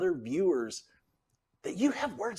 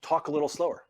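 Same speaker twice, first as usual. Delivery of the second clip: very direct; 3 semitones higher than usual. Shown as a demonstration. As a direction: direct instruction, firm falling end. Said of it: "if I wanna be very direct".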